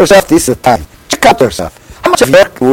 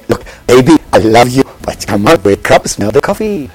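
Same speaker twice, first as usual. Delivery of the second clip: tender chiding; 4 semitones lower than usual. Retold or imitated.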